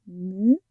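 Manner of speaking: "musiciens" in three pieces, mu, zi, sien; split into syllables. Shown as a demonstration. Teacher counts out syllables, "musiciens" broken into three. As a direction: pause after each syllable of "musiciens". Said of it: "Dans la troisième syllabe".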